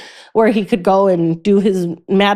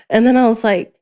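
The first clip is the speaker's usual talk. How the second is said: usual speaking voice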